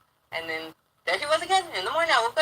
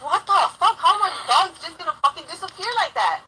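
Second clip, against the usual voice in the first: higher-pitched, exasperated disbelief; retold disbelief; 5 semitones higher than usual. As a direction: exclaim it, baffled and indignant. Retells reacting to missing dogs.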